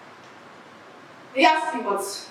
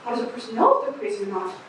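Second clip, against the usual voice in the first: a lightly voiced raspy street eccentric rambling to passersby; raspy street oddball. Eccentric on the street corner addressing the crowd, lightly raspy. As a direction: play a scratchy-voiced crank holding court on the corner. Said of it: "You don't like my raspy voice".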